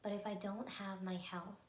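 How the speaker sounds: slow, measured recitation with long pauses; meditation affirmation. Acted. Meditation host reciting health affirmations with listeners, slow and calm. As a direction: say each affirmation deliberately, leaving room to repeat.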